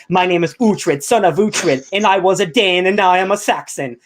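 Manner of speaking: lightly hammed-up opening narration; a hint of a dramatic trailer voice; mock show intro. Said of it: "And it's really bad".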